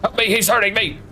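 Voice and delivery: high pleading mock cry for help; squeaky fake distress; mock victim. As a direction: play the helpless victim, hammed-up. Voicing a victim in game.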